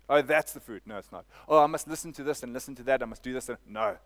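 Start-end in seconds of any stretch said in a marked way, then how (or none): 0.1-0.8 a little higher, louder mock; voicing the fooled believer, mildly mocking; mock distracted voice. 0.8-1.2 much softer, dropped rebuttal; quiet firm correction; flat quiet denial. Shown as a demonstration. 1.5-3.5 fast, rushed busy voice; a hint of a flustered believer; hurried mock. Voicing a distracted believer.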